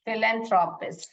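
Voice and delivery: philanthropist as one whole word, starting "fil"; joined-up pronunciation. Shown as a demonstration. Teacher putting the parts together for pupils, clear model pronunciation. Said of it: "ऐसे पढ़ोगे आप".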